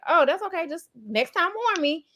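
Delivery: high, light forgiving reply; retold reassurance. Answering the partner's apology, retold reassurance. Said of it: "And I was like".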